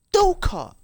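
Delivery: very high, drawn-out character squeal; slow, high-pitched comic whine; squeaky mock protest. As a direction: protest your name in a high silly voice. Mock-protest over the name.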